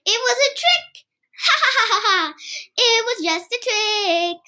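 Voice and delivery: put-on high, giggling little boy; laughing. Kipper laughing at Mom over his trick. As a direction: crack up over the prank.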